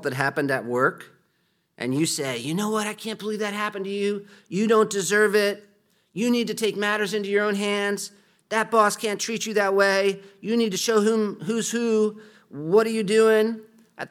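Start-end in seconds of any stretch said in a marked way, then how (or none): 2.4-13.6 high, heated egging-on, much higher and louder; indignant friend. Retold or imitated. Egging on a friend against the boss, indignant and high. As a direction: rile up a wronged friend.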